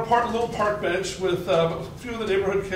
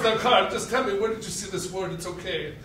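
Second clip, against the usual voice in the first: gentle dad. Retold or imitated. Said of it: "raised to be sweet and gentle".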